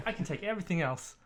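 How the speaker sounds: put-on New York accent. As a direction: bargain with a mugger in a light New York accent. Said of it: "gotta do a New York accent".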